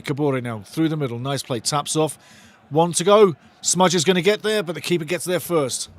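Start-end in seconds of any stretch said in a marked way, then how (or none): 2.7-4.6 much louder urgent call; excited shout. Real, not acted. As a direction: shout it as the chance opens. Near chance for Wrexham.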